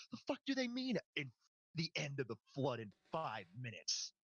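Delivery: mock-baffled yell that drops off; confused soldier. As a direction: throw it out, baffled mid-fight. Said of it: "You hear Ethan speak up".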